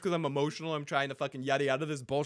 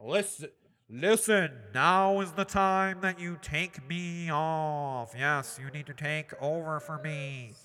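Bloodraven voice; slower than usual. Retold or imitated. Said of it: "And Bloodraven's like".

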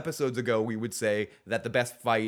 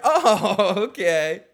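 loud, high startled Oh, okay; hammed-up startled realization; mock surprise; 9 semitones higher, 9 dB louder, much slower than usual. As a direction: blurt it out caught off guard. Mock reaction to Jaime's name.

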